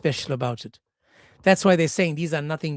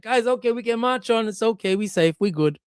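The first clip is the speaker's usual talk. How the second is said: higher, easygoing all-clear; relaxed Solomon; 5 semitones higher than usual. Acted. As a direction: wave the troops on, casual. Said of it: "in impersonation".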